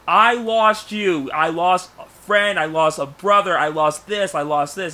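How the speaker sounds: high, loud start easing off down the list; acted upset yelling. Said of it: "he's just yelling and screaming".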